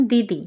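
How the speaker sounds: দিদি said quickly with short ই sounds; short vowel demo. Shown as a demonstration. Teacher contrasting রস্যিকার with দীর্ঘিকার, vowels short. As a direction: keep both vowels in দিদি brief. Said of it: "এগুলো কিন্তু খুব তাড়াতাড়ি উচ্চারণ হচ্ছে".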